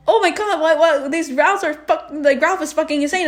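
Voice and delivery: high, flustered stumbling rant; mock a friend's worked-up outrage; imitated freak-out. Teasing friend about reaction to the clones, freaking out. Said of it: "so freaking out".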